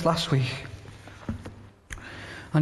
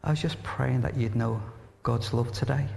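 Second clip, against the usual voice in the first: put-on soft, low, gently posh accent; a hint of posh English, spoken softly; lightly posh accent; 3 semitones lower, 4 dB quieter than usual. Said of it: "in this poshest accent".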